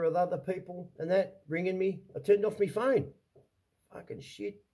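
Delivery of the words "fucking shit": breathy, voiceless curse under the breath; whispered curse. Real, not acted. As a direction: whisper it to yourself, worn out. Distressed aside to himself.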